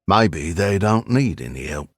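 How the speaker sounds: put-on old East End Cockney voice; gruff old Londoner, Cockney; Cockney accent. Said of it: "with an East End Cockney accent".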